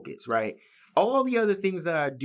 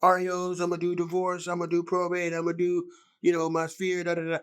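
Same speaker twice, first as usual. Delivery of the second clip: mock over-eager list; 4 semitones higher than usual. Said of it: "try to do a whole bunch of".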